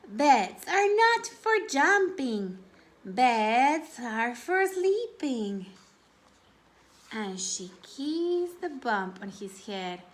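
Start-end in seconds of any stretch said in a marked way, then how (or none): 0.1-5.7 mild Mama Hippo. Acted. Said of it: "she said".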